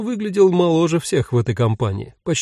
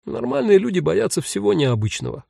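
higher, mildly amused reply; smiling; 6 semitones higher than usual. A narrator's reading. Jen answers the indignant ghost, lightly smiling. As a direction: correct him with a light smile. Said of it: "улыбнулась Джен".

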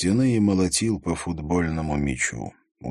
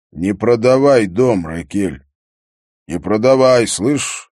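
loud, higher urgent plea; calling back; 5 semitones higher, 11 dB louder than usual. A narrator's reading. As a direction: call back to her forcefully, raised voice. Calling back after walking away.

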